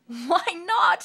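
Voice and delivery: high, loud amused; chuckling. Acted. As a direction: toss it off with a chuckle. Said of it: "she chuckled".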